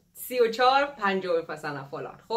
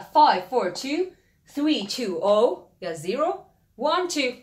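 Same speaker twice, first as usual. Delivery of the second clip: digit by digit; much slower than usual. Shown as a demonstration.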